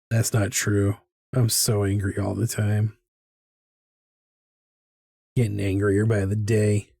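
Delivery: "I'm so angry all the time" dropped low and flat; mock confession, dry and low; deadpan admission. Claims, then admits opposite.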